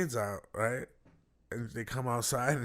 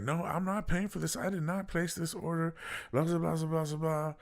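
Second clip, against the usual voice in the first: mock protest in a higher voice; indignant customer; 5 semitones higher than usual. Customer refusing to pay for food, indignant. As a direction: imitate an indignant refusal, pitched up.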